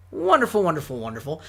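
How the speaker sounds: cheesy singsong cartoon voice; vintage cartoon voice. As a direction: gush it out like an old cartoon character. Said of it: "I sound like a cartoon character saying that cheesy".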